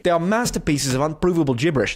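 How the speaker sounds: put-on British reading voice; British accent. Reading the critic's verdict in a mock British accent. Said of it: "I'll do it in a British accent".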